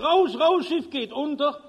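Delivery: steward calling out high and urgent; desperate call. Acted. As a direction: raise the alarm down the corridor. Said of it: "ruft verzweifelt".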